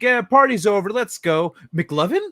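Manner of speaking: mock cop order. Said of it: "They're like".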